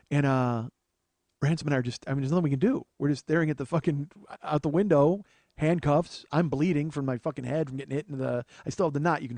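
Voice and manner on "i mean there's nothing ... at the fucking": ordinary talk, nothing marked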